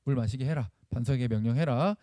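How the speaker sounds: softened voice, a touch of pity; compassionate God. Acted. God pitying the thirsty people, mildly compassionate. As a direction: gently give the order out of sympathy. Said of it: "걔는 약하잖아, 연약하잖아".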